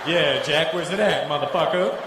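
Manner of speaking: mock Black American gangster voice; Black American accent. Comic turning gangster before the bouncer, Black American accent. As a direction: play cool with a Black American street accent. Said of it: "a black American guy".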